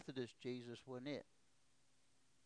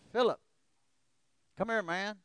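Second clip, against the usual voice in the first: loud call, higher, urging him over; 7 semitones higher, 11 dB louder than usual. Retold or imitated. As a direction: shout across the yard to a friend. Friend calling him from outside.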